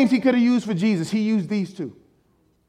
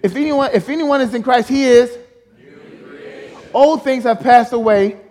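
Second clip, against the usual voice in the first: louder, higher, punchy proclamation; with some oomph; 4 semitones higher, 4 dB louder than usual. Shown as a demonstration. Preacher showing the congregation how to say the verse, loud and higher. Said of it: "Come say it with some oomph".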